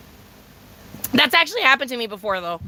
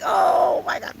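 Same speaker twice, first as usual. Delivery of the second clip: laughing disbelief; 8 semitones higher, slower than usual. Retold or imitated. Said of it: "I was like".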